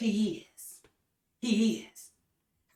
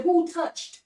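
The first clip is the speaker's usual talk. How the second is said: Jesus asking; 3 semitones higher, much slower than usual. Retold or imitated. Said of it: "He said".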